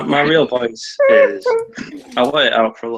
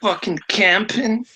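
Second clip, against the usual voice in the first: higher British YouTuber voice; British accent; 10 semitones higher, much slower than usual. Acted. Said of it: "sounds like British white YouTuber".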